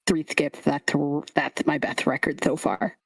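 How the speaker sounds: lightly voiced proud lisping creature; lisping scarecrow kid. Kid reports his throw to Lulu, lisping. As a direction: lisp every s sound. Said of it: "The lisp".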